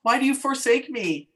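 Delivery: hammed-up whiny kid; mock child plea. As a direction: plead like a dramatic eight-year-old. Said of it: "You're like".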